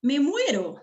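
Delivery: theatrical exclamation of dismay; dramatic exclamation. Shown as a demonstration. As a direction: ham up the horror. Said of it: "O podría decir".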